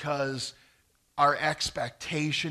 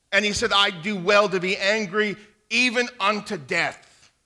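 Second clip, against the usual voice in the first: louder and higher, driving the point home; full-force preaching; 5 semitones higher, 7 dB louder than usual. Acted. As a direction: preach it out to the whole congregation.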